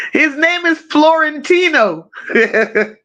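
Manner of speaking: laughing through the words; giggling while saying it. Real, not acted. Laughing at son's name.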